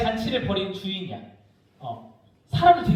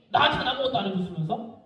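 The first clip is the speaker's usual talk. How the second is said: sulky grievance; 6 dB quieter, faster than usual. Acted. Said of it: "감정을 이입해".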